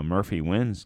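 ordinary delivery

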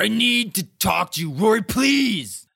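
loud, high, over-the-top pleading yell; mock yelling. Jess demanding to talk to Rory, imitated yelling. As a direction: yell it, stretching the plea at the end. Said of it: "it sounds like I'm exaggerating".

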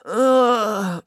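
sleepy reluctant groan; drowsy ugh; groggy moan. Acted. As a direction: moan as if woken too early. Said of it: "moaned Finn".

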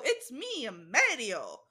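Mario impression. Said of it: "Japanese creators did not go".

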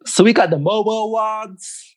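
British speaker's put-on American accent. Shown as a demonstration. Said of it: "in your best American accent".

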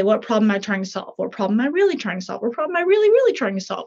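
fast, pressing harder each repeat; escalating self-question; building on really. Shown as a demonstration. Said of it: "you can kinda say".

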